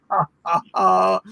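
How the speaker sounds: little measured put-on laugh; small laugh. Shown as a demonstration. Leader measures out laughs for warming up, small one. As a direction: keep the ha-ha small. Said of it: "a small laugh with a".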